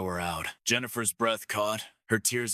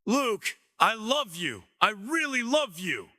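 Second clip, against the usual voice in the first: sobbing; 12 semitones higher than usual. A narrator's reading. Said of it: "Her shouting turned into sobs".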